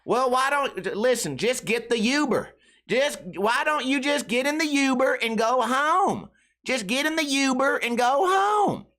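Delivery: high, slow, pleading mom voice; exasperated mom imitation. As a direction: sigh it out like a tired mom. Imitating mom's exasperated plea.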